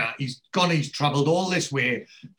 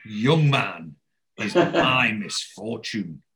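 aggressive tone; 4 dB louder, much slower than usual. Retold or imitated. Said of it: "fairly aggressive in her tone".

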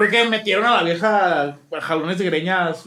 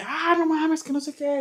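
higher, lightly voiced woman shouting in panic; imitated woman yelling; 9 semitones higher, 3 dB quieter than usual. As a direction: mimic a desperate woman, half-hearted. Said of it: "gritos acá como de una vieja". (imitando a una mujer desesperada, agudo y suave)

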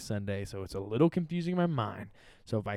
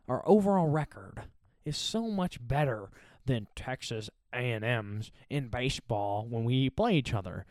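mocking Texas fan; 2 semitones lower than usual. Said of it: "the Texas fans are saying".

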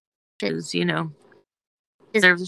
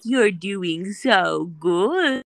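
slow praise; much slower than usual. Shown as a demonstration. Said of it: "I just need you to be like".

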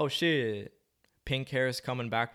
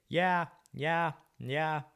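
voice crack; 9 semitones higher, much slower than usual. Real, not acted. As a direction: voice cracking up high on yeah. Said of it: "That was a voice crack".

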